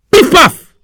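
sharp, high, loud bang bang; gunshot sound. Acted. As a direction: fire off a mock gunshot. Gunshots in the tale.

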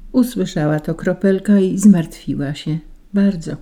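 ordinary delivery

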